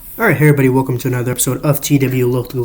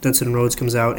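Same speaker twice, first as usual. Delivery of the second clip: plain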